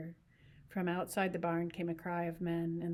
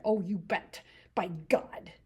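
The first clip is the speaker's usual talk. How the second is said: happy cry; 4 dB louder, slower than usual. Acted. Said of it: "he cried happily".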